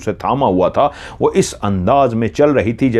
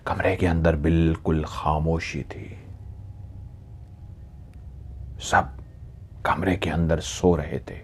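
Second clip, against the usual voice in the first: low, soft, slow storytelling with long pauses; hushed narration; 4 semitones lower, 10 dB quieter than usual. A narrator's reading. Narrator describes everyone asleep in the silent room, hushed. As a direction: drop the voice as if not to wake anyone.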